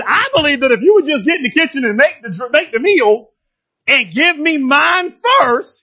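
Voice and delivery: mock stingy prophet; demanding Elijah. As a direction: insist she feed him first. Elijah voiced demanding first portion.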